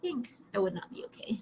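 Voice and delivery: choked, near-crying whisper; tearful whisper. Real, not acted. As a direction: whisper it as if about to cry. Imagining friend dying.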